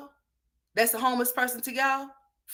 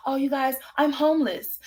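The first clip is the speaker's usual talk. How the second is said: mocking quote; 6 semitones higher than usual. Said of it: "she just pops out and say".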